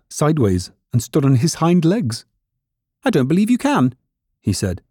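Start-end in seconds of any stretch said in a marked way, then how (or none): 3.0-4.0 high, challenging rabbit voice; doubting furry rabbit. A narrator's reading. Furry rabbit challenging toy rabbit, high doubting voice. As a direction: dare the listener in a high rabbit voice.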